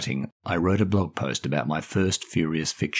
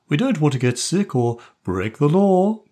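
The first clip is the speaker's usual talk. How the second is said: put-on frowning girl; 8 semitones higher, 4 dB louder than usual. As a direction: back up her cousin firmly. Anne continues.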